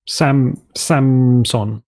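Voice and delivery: "Samson" split carefully, both syllables full. Shown as a demonstration. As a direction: sound out "Samson" as Sam, then son. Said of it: "S A M S O N".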